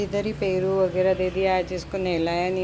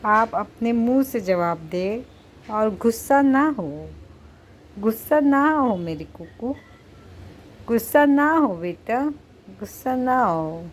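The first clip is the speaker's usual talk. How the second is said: higher, slower pet-coaxing voice, pleading gently; coaxing the cat; 4 semitones higher, slower than usual. Real, not acted. Mother coaxes her sulking cat Kuku, pleading sweetly.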